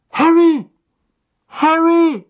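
high, loud cry of his name; urgent shout. Acted. Man shouts to rouse the dazed boy, urgent shout. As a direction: call out to him, very high and urgent.

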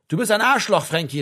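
hurt outburst that drops on the name; called out, near tears. A narrator's reading. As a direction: cry it out, wounded and angry. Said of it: "rief Martin Klapp".

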